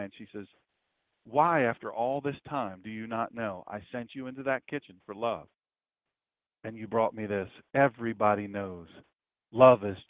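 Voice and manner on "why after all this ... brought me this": mock tearful wife. Wife gently heartbroken that he still didn't bring love. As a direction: say it as if near tears, understated. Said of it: "a tear wells up".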